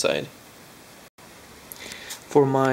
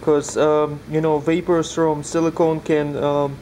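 muffled behind a respirator mask; talking through a face respirator; 3 semitones higher than usual. Real, not acted. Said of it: "hard to talk with the respirator on".

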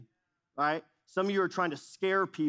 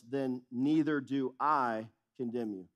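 slow, tender pardon; gentle and slow; 5 semitones lower than usual. Retold or imitated. Jesus pardoning the woman, slow and tender.

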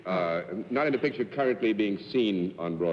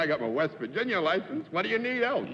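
put-on old McCoy voice; 8 semitones higher than usual. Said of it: "He says".

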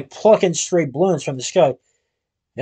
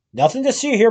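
boomed; 5 semitones higher than usual. Acted. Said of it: "boomed the man".

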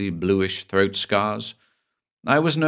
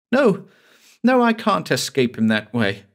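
high, louder frantic refusal; desperate Cassie; 8 semitones higher, 3 dB louder than usual. Acted. Cassie refuses her lover's escape plan, high frantic cry.

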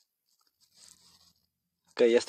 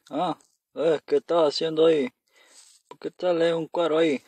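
normal talking voice

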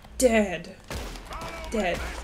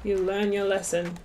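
put-on cowboy accent; 3 semitones lower than usual. Player warning a shooter off the beans, cowboy accent. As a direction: play the cowboy laying down the law. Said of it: "doing the cowboy accent".

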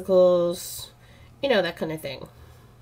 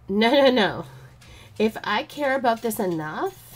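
retold upset protest; 3 semitones higher than usual. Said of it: "I felt like he was brushing me off".

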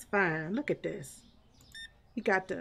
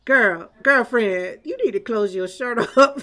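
calling out; 6 dB louder than usual. Real, not acted. Calling out customer.

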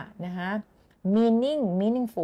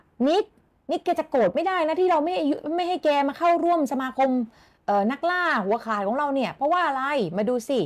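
lightly voiced club member; 5 semitones higher than usual. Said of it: "มันก็เลยบอกว่า".

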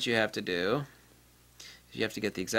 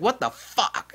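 higher, mock stunned user; mock shock; 8 semitones higher, slower than usual. Imitating a user stunned at losing data. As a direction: imitate someone stunned at their loss.

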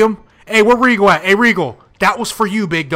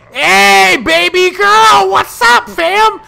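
flirty greeting; 9 semitones higher, 6 dB louder, much slower than usual. Pretend. Greeting Mandy Rose in game.

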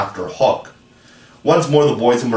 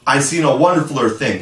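cried out; 4 semitones higher, faster than usual. Acted. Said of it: "he cried".

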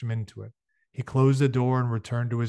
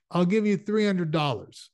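slightly acted, higher-pitched offer; name the price in a raised pitch; lightly voiced offer; 7 semitones higher, 3 dB louder than usual. A narrator's reading. Fletcher making Ernie an offer, lightly acted.

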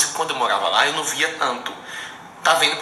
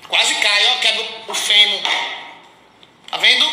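excited exclamation; 9 semitones higher, 5 dB louder than usual. Real, not acted. Nearly fell, telling viewers.

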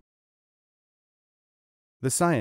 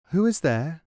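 voice behind door; 5 semitones higher than usual. A narrator's reading.

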